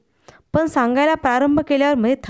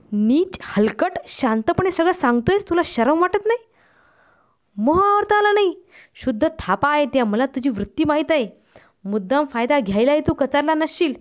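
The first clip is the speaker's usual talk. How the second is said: angry outburst; 3 semitones higher than usual. Acted. The narrator rages at his friend over Sumitra's death. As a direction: lash out at him, pitch climbing. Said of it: "आरडाओरडा करू नकोस".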